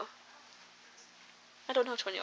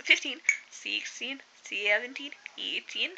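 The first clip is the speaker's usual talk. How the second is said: idle slow counting; slower than usual. Real, not acted. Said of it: "I don't know why I'm counting".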